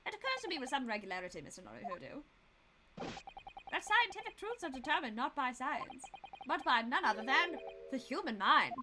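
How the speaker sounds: lightly voiced musing detective; Sholmes. Detective addressing Mister Naruhodo on scientific truth, musing. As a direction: deliver the maxim with theatrical deliberation. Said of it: "should I do Sholmes's voice".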